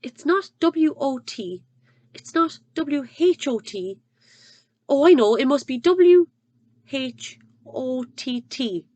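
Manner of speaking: slow, careful spelling; very slowly. Acted. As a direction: spell each letter out deliberately. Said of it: "he said very slowly".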